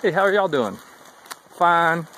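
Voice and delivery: mock curt northern answer; curt one-word reply. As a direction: act the northern hikers' brush-off. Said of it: "That's all I get".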